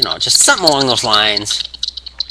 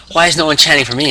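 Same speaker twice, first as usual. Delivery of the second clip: mildly indignant, raised pitch; a touch of mock outrage; CM Punk, miffed; 6 semitones higher, 4 dB louder, faster than usual. Wrestler to a crowd chanting his rival, mock annoyed. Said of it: "he gets kinda pissed off".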